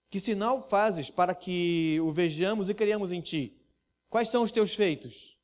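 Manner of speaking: slow, pointed challenge; accusing tone. Acted. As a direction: demand proof, accusingly. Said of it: "devem ser lido como um tom de acusação".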